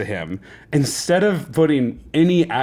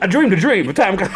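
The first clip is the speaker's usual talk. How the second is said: higher, badly faked New Jersey accent; 7 semitones higher, 3 dB louder than usual. Host retries the Les Mis bit, hammed-up New Jersey accent. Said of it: "can do a New Jersey accent".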